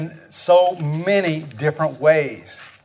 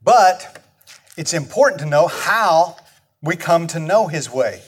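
ordinary talk

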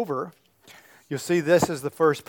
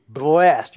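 "Blessed" said louder, falling; stress on blessed; 6 dB louder than usual. Shown as a demonstration. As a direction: land firmly on "Blessed". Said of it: "emphasize the word blessed".

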